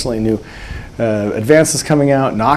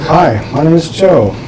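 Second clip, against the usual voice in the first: put-on mic voice; 5 semitones higher, 4 dB louder than usual. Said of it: "I said normal".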